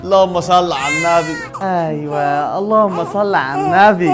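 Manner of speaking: tearful blessing. Acted.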